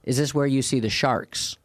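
lightly imitated broken German accent; a hint of a German tourist's accent. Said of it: "in, like, broken, like, German accent".

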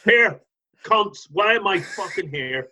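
mock Northern Irish accent, slow; Northern Irish accent, drawn out and slow. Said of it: "in a Northern Irish accent".

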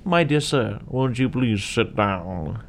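slow, courtly invitation; lightly voiced refined gentleman; posh gentleman. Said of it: "And Ernest goes".

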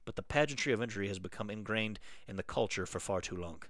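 lightly voiced Canadian rant, drifting Irish; Canadian accent. Co-host reads a listener letter in a mild Canadian accent. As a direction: read the rant in a half-hearted Canadian accent. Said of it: "This primarily needs to be read in a Canadian accent".

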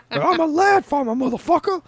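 high squeaky laugh-through line; laughing quote. Retold or imitated. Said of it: "looks up and goes".

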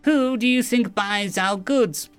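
slow, high-pitched scorn; drawn-out contemptuous question; sneering. A narrator's reading. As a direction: sneer each word slowly as an alien villain. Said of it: "sneered Kraid".

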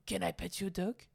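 lightly voiced bumbling French detective; a hint of comic French accent; Pink Panther detective. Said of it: "That's the detective".

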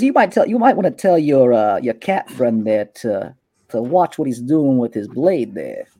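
a hint of a swaggering street boss; smug gang boss. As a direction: Kalen sizing up a rival in his turf. Kalen warns about the blade.

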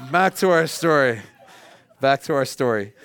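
repeating it through a laugh; chuckling; amused repeat. Real, not acted.

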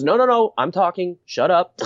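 high, insistent imitation of shutting someone down; retold cutting-off. Scientist silences the fawning anchor, mock impatient rebuff. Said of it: "and he goes".

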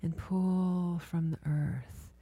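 healer guiding a client through body listening, hushed and soothing; guided meditation. Acted.

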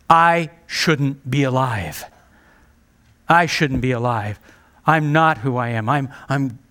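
slow, low, broken voice of someone who failed; mild acted despair, trailing off; despairing self-hatred. Preacher voicing a fallen believer, low and despairing. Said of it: "stunned at themselves and plummet into a depression".

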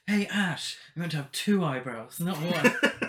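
bitchy laughing jibe; camp, giggling put-down; sassy taunt. Retold or imitated. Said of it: "it's just like".

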